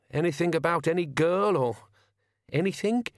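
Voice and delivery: squeaky, panicky babble; high-pitched wheeze. A narrator's reading. Frightened driver denies knowing about the girl, high-pitched wheeze. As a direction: voice pushed right up with nerves. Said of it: "his voice was a high-pitched wheeze".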